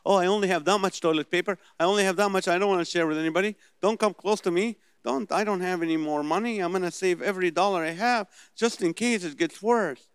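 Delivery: mock the stingy Christian clutching his stuff; mock selfish hoarder. Preacher mocks hoarding Christians, whiny selfish voice.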